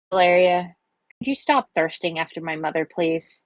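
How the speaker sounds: a request with little tune in it; toneless request. Acted. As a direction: ask it tonelessly. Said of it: "David asked tonelessly".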